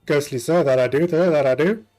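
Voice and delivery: lightly voiced polite ghostly conductor; a hint of a prim ghost official. Ghost conductor addressing the passengers, polite and prim.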